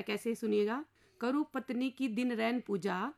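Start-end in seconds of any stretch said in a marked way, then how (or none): 1.2-3.1 poem recitation. Acted. Henpecked husband reciting his plea to the inspector, slow verse.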